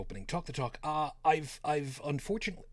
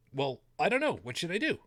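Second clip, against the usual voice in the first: higher, louder, lightly acted hesitant questioning; a touch of wavering indecision, pitched up; unsure Eve; 5 semitones higher, 4 dB louder than usual. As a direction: play a mildly flustered Eve asking for advice. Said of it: "Adam and Eve are created".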